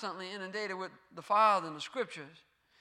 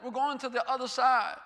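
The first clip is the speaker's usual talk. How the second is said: emphatic repeat. Shown as a demonstration. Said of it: "That means something when he says that".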